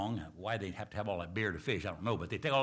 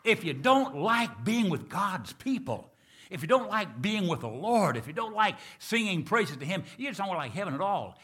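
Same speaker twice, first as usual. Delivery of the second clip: preaching emphatically; 7 semitones higher, 5 dB louder than usual. Real, not acted. Preacher warning his church about heaven, emphatic and loud. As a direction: drive the point home to the congregation.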